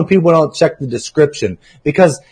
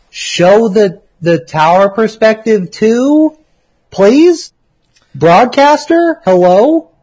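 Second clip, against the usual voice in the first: high, slow whiny crybaby voice; mock snippy; 4 semitones higher, much slower than usual. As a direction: drawl it like a spoiled kid. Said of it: "that's how I read the dumbass".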